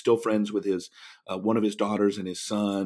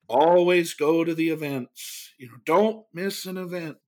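slow, higher-pitched professor imitation; professorial; 5 semitones higher than usual. Mentor lecturing from behind the lectern, lightly imitated professorial delivery. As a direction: lightly mimic a professor's measured advice. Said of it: "He was very professorial".

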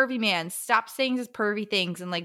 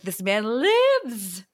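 slow breathy whisper of disbelief; awed whisper; 5 dB louder, much slower than usual. Retold or imitated. Reader whispering her reaction to a character's return, awed. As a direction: whisper it like a secret shock.

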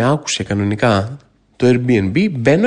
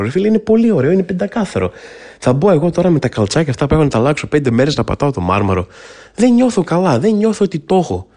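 flustered. Real, not acted. Ashamed to step on marble.

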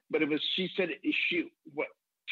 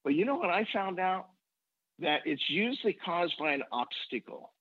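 a hint of a gentle grandmother, pitched higher; lightly voiced grandmother; 5 semitones higher than usual. Grandmother comforting a frustrated four-year-old, lightly voiced. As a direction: sound like a kindly grandma sharing wisdom. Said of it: "She said".

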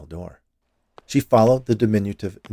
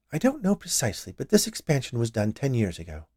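higher start, easing down; a hint of an obliging shopkeeper; lightly voiced confectioner; 4 semitones higher, 4 dB quieter than usual.

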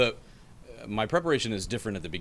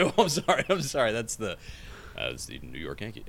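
flustered apology; 4 semitones higher, 4 dB louder than usual. Retold or imitated. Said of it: "I was like".

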